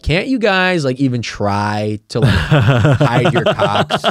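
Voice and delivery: mildly exasperated cop, stretched out, breaking into laughter. Retold or imitated. Cops catching guys peeing in a bush, mock exasperation. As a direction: chide them with drawn-out disbelief, half laughing.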